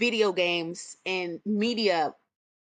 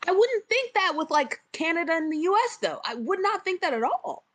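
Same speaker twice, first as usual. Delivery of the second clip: pitched way up in disbelief; incredulous; 8 semitones higher than usual. Real, not acted. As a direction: voice jumps high, baffled. Incredulous about Canada covers.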